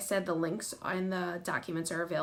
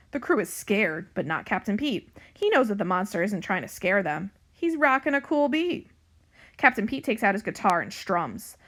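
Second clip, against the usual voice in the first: animated storybook narration, louder than chat; story reading to children; 4 dB louder than usual. A narrator's reading. Librarian reading a pirate cat book to young pupils, animated narration. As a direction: read it out clearly for young listeners.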